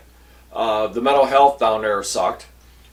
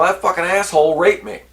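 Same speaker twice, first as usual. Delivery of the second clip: mock outrage, higher pitched; angry outburst; 6 semitones higher than usual. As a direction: voice an imagined survivor's anger, pitched up. Imagined outraged survivor, against casual telling.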